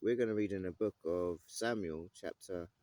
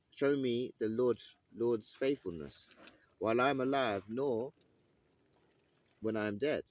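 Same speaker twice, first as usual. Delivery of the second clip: measured Bible reading, slightly raised; lightly dramatised scripture reading; 2 semitones higher than usual. Acted. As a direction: read the passage out with weight. Reads the passage aloud.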